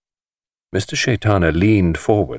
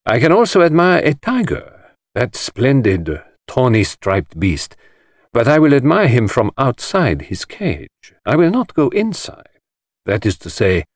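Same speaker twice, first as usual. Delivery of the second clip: lightly voiced careful detective; a hint of a grave foreign detective warning; 5 semitones higher than usual. The detective warning the host, lightly voiced.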